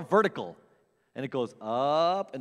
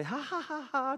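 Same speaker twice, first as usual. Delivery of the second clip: forced laugh; 9 semitones higher, 8 dB quieter than usual. Retold or imitated.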